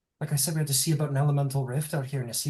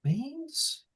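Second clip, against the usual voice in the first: shocked question; 12 semitones higher, 5 dB quieter than usual. Acted. Hearing of fiendish incursion.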